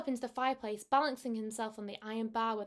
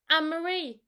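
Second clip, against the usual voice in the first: put-on higher, louder old rat call; 5 semitones higher, 8 dB louder than usual. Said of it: "said the old man rat".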